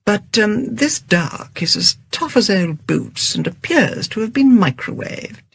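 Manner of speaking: mild. Acted. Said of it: "said James mildly".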